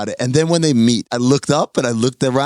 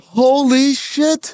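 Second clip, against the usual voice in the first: amazed; 8 semitones higher, much slower than usual. Real, not acted. Reacting to a reveal.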